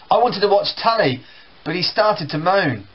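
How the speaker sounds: put-on sulky kid. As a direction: answer back like a kid. Brothers quarrel in acted scene.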